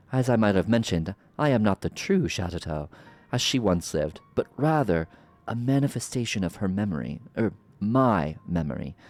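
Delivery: smug, drawn-out sorceress menace; slow theatrical villain menace. Acted. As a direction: savor every threat like a villain. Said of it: "I love playing a villain voice".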